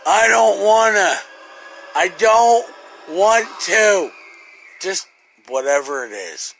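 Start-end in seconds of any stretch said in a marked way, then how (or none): 0.1-4.1 raised, loud mock whine of not wanting to; loud childish protest; whiny refusal. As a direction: whine it like a kid refusing to get up. Groggy inner whine on waking.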